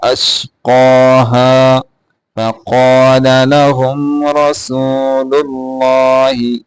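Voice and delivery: slow, measured tajweed chant; Quran recitation. Shown as a demonstration. Teacher recites the verse for students, slow tajweed chant. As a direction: recite slowly, drawing out the vowels.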